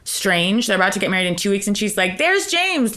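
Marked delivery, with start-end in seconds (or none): 2.2-3.0 Mariah impression. Quoting Mariah.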